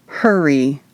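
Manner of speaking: through gritted teeth. Acted. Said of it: "I said through gritted teeth".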